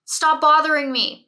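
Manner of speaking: put-on teen shouting at the parent to go away; mock teen scream. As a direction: snap it like a kid fed up with the knocking. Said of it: "screaming at you saying".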